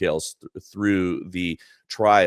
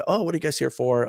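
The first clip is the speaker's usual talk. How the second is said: mock coworker; 7 semitones higher, faster than usual. Coworker voiced at jazz club.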